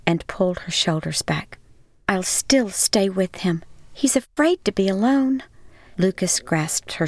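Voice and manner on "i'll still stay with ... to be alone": a hushed, determined woman's voice; a wife refusing to leave; resolved woman. Acted. Miriam resolves quietly.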